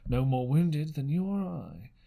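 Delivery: slow, dismissive doctor voice; lightly voiced doctor brushing off fuss; brusque doctor. A narrator's reading. Doctor to Jim and mother about the captain, slow and dismissive.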